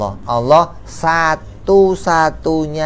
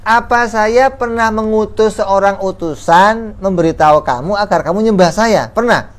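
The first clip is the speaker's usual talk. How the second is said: higher, louder challenging questions; accusing idol; 8 semitones higher, 4 dB louder than usual. Acted. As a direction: grill them, demand an answer. Idol interrogates its worshippers.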